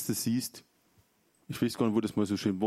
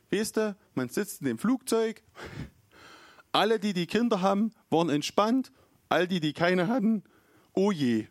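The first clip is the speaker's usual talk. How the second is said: a hint of the friend telling it; lightly voiced friend; 8 semitones higher than usual. Friend describing the flight with kids, lightly voiced higher.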